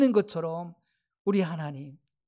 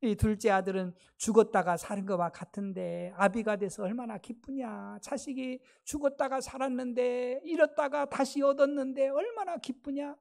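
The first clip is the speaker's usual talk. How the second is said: softer, imitated fatherly appeal; father gently persuading; 3 dB quieter than usual. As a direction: reason tenderly with an upset son. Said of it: "그러면서 그 아들을 설득시킵니다".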